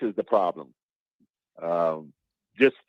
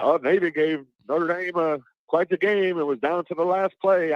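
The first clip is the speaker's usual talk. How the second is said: mock TV pundit; 5 semitones higher than usual. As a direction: ham up a game day commentator, a bit higher. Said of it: "like, oh, on college game day or something".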